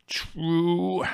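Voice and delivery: high drawn-out groan. A narrator's reading. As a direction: groan the word out. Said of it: "groaned Costi".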